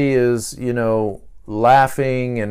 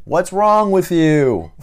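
slow, higher, laughing through it; mock laughing question; 5 semitones higher, slower than usual. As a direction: tease it out with a chuckle.

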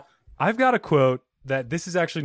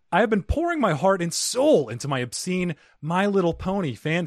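animated, higher-pitched letter reading; reading a fan letter; 5 semitones higher than usual. Acted. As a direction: read out the listener's question with mock earnestness. Reads a listener's letter aloud.

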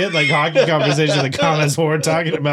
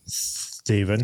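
cable guy impression; 5 semitones lower, 6 dB quieter than usual. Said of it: "like cable guy".

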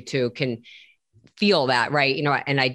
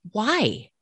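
caring question; 5 semitones higher than usual. Retold or imitated. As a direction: ask like a worried parent, tender. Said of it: "Ask somebody".

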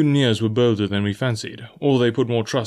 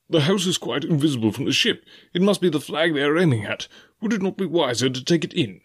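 higher, worried gentleman's voice; anxious squire; 5 semitones higher than usual. Acted. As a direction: plead with the captain politely, pitched up. Squire pleads with captain.

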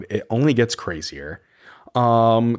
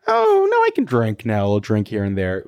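mocking Luann. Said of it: "Luann is really taking this new".

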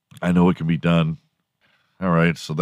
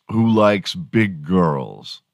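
ordinary talk, nothing marked

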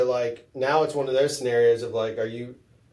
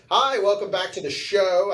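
host voice; 4 semitones higher, slower than usual. Pretend. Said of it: "I don't know why I said that".

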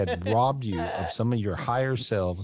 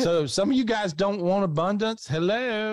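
higher, slower, disbelieving; high incredulous scold; 8 semitones higher, slower than usual. Acted. Scolds crowd for refusing gift.

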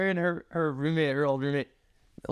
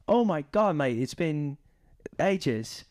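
lightly imitated Australian greeting; Australian accent; slower than usual. Retelling the Coachella meeting, imitated Australian accent. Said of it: "And he's Australian".

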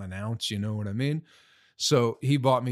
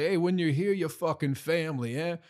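lightly voiced Olive Garden host, a bit higher; mock welcoming host voice; Olive Garden greeting; 5 semitones higher than usual. Vlogger imitating the Olive Garden slogan, lightly hammed. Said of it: "the Olive Garden thing is like".

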